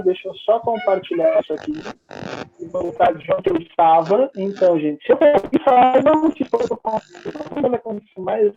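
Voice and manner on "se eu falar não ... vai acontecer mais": choppy, dropping connection; words breaking up on a bad line; audio cutting out. Real, not acted. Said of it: "tá cortando muito a sua, a sua fala".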